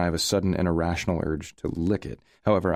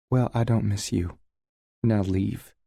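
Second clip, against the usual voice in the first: biting out; 4 semitones higher, slower than usual. A narrator's reading. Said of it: "she bites out".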